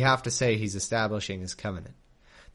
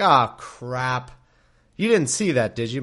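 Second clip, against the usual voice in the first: louder, a touch of panicked Abram; caught out; 6 dB louder than usual. Retold or imitated. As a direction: caught red-handed, a bit louder. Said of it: "He's like".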